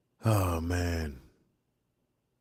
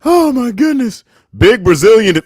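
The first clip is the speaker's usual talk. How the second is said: cracking up; 9 semitones higher, 8 dB louder than usual. Real, not acted. Cracking up at chat.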